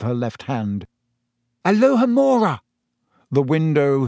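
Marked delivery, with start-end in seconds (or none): 1.6-2.6 loud, high incantation; spell cast. Acted. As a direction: cast it out with force. Casting a spell at window.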